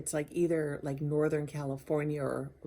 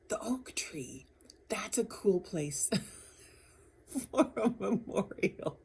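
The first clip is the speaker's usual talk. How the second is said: whispered thought; 3 semitones higher than usual. Retold or imitated. Under the oak tree, whispering the idea to herself. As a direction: breathe it like a secret idea.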